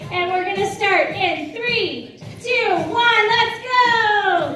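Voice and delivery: building to a loud high "let's go"; hyped start. Real, not acted. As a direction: fire up the room. Starting the group exercise.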